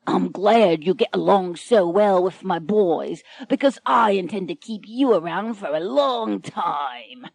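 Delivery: leering pirate captain. Acted. Pirate leers at captive lady.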